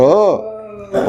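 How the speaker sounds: high, put-on "oh" of alarm; frightened gasp. Shown as a demonstration. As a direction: demonstrate a startled cry. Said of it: "how about if you're afraid?".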